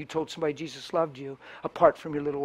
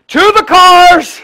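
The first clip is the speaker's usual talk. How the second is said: high, loud hammed-up rallying shout; laughing mock battle cry; mock retreat cry; 18 dB louder, much slower than usual. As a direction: bellow like a general sounding retreat.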